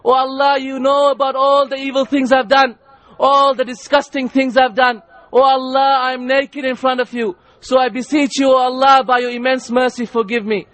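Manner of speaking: fervent plea, each address pushed up; acted pilgrim's impassioned prayer; imploring supplication. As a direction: beg forgiveness in an urgent, rhythmic prayer. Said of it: "standing and imploring to his Lord".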